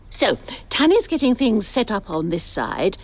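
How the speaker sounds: ordinary talk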